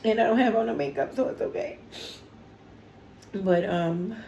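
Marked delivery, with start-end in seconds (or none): 0.0-1.8 teary. Real, not acted. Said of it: "I told you I was already about to cry".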